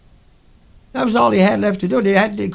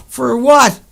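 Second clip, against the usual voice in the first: loud, raised "For what?"; angry shout; 3 semitones higher, 7 dB louder than usual. Real, not acted. Demanding why the planet was wrecked, loud angry shout. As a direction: demand it with real anger. Furious rhetorical question.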